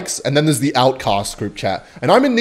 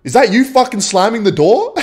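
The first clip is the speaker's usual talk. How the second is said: higher quote broken by laughter; imitating the angry neighbor while cracking up; laughing through it; 8 semitones higher than usual. Narrator retells neighbor's complaint about the door, laughing. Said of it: "he replies with".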